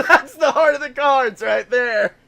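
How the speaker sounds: loud, high exultant call; mock triumph. Player backing the heart of the cards, mock triumph. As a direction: crow it over the table. Joining in the card game bit.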